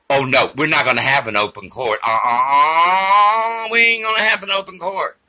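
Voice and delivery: fast, indignant refusal, pitch climbing; mock indignant. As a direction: slam the door on an open court.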